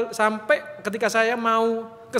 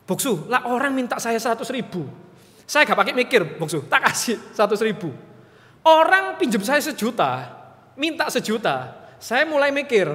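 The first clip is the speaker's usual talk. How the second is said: rising, louder disbelief at the pastor; incredulous challenge; 5 semitones higher, 3 dB louder than usual. Retold or imitated. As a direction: press him, amazed he'd give so much. Menantang pendeta soal pemberian. (tak percaya, nada naik dan keras)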